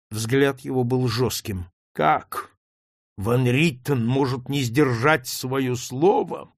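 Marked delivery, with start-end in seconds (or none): 1.9-6.5 slow, drawn-out words; drawled. Acted. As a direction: stretch each word out slowly. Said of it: "протянул он".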